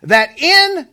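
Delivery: emphatic, declamatory Bible reading; scripture reading. Real, not acted. Preacher reading Genesis to the congregation, emphatic scripture reading. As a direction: proclaim the verse with weighty pauses.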